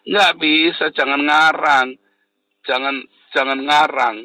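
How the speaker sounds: loud, high, emphatic rebuke from the pulpit; slowed, booming denial; forceful preaching shout. Real, not acted. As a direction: hammer it home at the congregation. Preacher scolding at full force.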